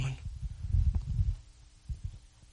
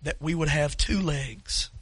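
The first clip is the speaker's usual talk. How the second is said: closing prayer; 4 dB louder than usual. Real, not acted. Pastor praying over the standing congregation, earnest and subdued. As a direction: pray it over the room, humbly.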